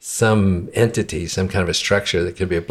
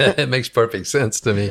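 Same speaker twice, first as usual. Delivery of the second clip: talking through laughter, higher pitch; 4 semitones higher than usual. Reacting to another speaker's story, laughing while talking. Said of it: "why are you laughing".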